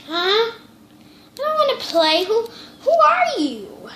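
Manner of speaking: high, loud frightened voice; scared. Acted. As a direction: cry out in fright. Girl scared by ghost.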